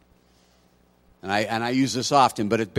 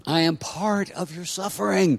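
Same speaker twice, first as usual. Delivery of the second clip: mock solemn; 10 semitones higher than usual. Jokes about long sermon.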